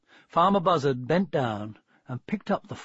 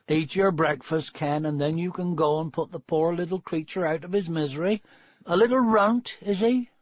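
lightly voiced country wife; farmer's wife, practical; 3 semitones higher than usual. Wife asking husband about the puppy, lightly practical. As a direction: practical rustic wife, rising into her question.

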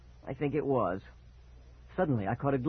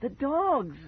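high, loud frightened wail; 14 semitones higher, 3 dB louder than usual. Acted. Boy wails to Dad about the dogs. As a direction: cry out, refusing to let go. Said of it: "I wailed".

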